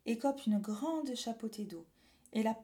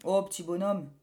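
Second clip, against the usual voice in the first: farmer voice; 5 dB louder than usual. Acted. Farmer answers boy.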